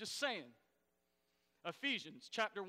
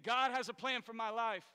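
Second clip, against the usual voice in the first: firm, louder declaration with conviction; said like you mean it; 3 semitones higher, 6 dB louder than usual. Shown as a demonstration. Preacher urges the congregation to mean it, declared with conviction. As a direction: proclaim it as if you truly believe it. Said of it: "You need to say it like you mean it".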